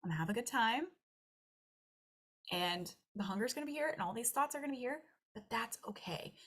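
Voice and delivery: soft self-calming voice; calm reassuring self-talk. Retold or imitated. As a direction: soothe yourself quietly. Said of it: "you're like".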